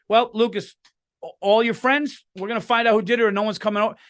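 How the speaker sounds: mock motherly ultimatum; retold stern mom. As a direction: imitate a mom laying down the law. Wife laying down law to son.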